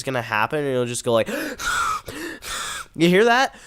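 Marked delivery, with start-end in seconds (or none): 1.3-2.9 whistling nose. Real, not acted. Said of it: "it was definitely whistling here". 3.0-3.5 surprised. Real, not acted. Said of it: "my nose is whistling".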